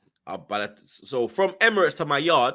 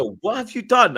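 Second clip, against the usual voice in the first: lightly voiced missus, higher and louder; alarmed missus; 8 semitones higher, 6 dB louder than usual. Missus asking him about the channel, alarmed. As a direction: confront your partner in mild mock alarm.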